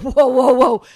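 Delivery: hammed-up loud whoa; loud retold whoa. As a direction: stop him in his tracks, half laughing. Retelling reaction to rookie's ignorance.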